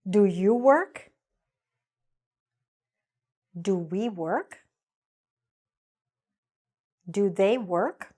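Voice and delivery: slow, clear drill lines with pauses; slow repeat-after-me drill. Shown as a demonstration. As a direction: model each line slowly for the class. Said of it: "repeat it after me".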